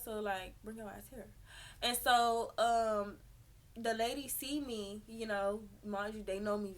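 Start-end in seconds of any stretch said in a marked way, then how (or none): 0.6-1.3 low, quiet summons; quietly repeating the call; hushed call. Retold or imitated. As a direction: call her over without being heard. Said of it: "I'm trying to talk low".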